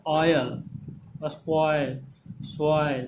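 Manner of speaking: ऑयल, स्पॉइल, सॉइल with a drawn-out "oi" glide; careful, separated ऑयल, स्पॉइल, सॉइल; model pronunciation. Shown as a demonstration. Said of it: "आई हो जाएगा".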